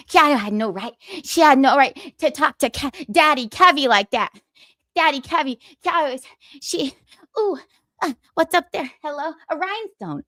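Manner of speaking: high put-on voice with halting, rambling delivery; Scarlet. Host doing a requested impression for a two-dollar donor, hammed up. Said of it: "can you give me some Scarlet impression".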